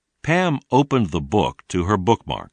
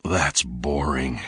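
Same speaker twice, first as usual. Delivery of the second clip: lower, softer, slow bored grumble; a kid unimpressed by a dull show; 5 semitones lower, 4 dB quieter, slower than usual. Acted. Tom dismisses the show.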